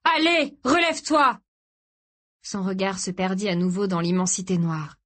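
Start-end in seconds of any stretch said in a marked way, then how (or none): 0.0-1.4 high, insistent cry; frantic urging. A narrator's reading. Son to his struggling father, panicked urging. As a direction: push him to get up, voice raised. Boy urges father to stand.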